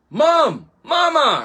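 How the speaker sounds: high, eager calls to Mom; excited shouting. Acted. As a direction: call out to your moms in high excitement. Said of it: "I shouted".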